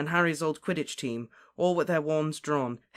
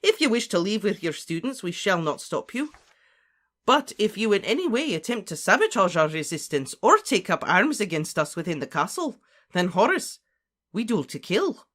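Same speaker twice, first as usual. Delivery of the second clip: higher, louder voice of authority; forceful, commanding character voice; stern warning professor; 6 semitones higher, 6 dB louder than usual. Acted. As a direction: lay down a deadly ultimatum. McGonagall warns Slughorn in story.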